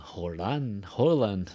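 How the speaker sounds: "Holland" said as a playful wrong blend; joking mispronunciation. Shown as a demonstration. Teacher joking with student, mock "Holland" mispronunciation. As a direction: toss out "Holland" as a silly misreading. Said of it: "No, it's not Holland".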